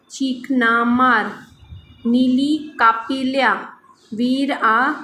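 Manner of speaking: reads each syllable slowly and deliberately for learners; slow word-list reading. Acted. Teacher reading primer words aloud for students, slow and deliberate.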